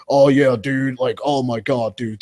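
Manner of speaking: hint of a stoner frat bro; lightly put-on stoner dude voice. Guest mimicking jocks from school, stoner dude voice. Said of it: "Yeah, the stoner motherfuckers".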